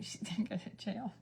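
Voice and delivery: unvoiced joking whisper; mock-worried whisper of the punchline; whispered quote. Retelling her reaction to her daughter's hustle, whispered. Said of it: "So I was like".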